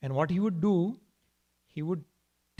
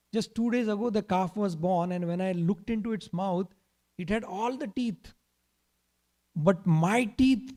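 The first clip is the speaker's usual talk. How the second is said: mock tearful complaint; 4 semitones higher than usual. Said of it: "he started crying".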